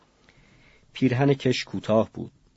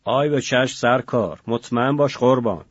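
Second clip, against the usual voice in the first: loud, coarse street-tough reply; brash thug voice; 2 semitones higher, 5 dB louder than usual. Acted. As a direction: answer like a swaggering prison tough. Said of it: "صدای دریده و لاتواری جواب داد".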